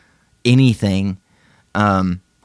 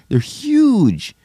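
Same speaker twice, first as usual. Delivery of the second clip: high squeal; 11 semitones higher than usual. Pretend. Mocking the huge glasses.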